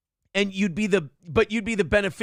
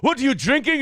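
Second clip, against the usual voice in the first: high, loud imitated yell; berating boss; 7 semitones higher, 5 dB louder than usual. Mimicking the owner at a woman who messed up, angry yell. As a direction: lay into a worker with a shouted accusation. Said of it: "if a girl fucked up, he'd be like".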